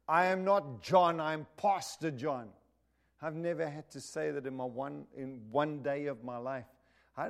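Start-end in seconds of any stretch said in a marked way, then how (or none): 0.1-2.5 put-on loud, strong South African accent. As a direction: call out "Brother" in a heavy South African accent. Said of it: "in a strong South African accent".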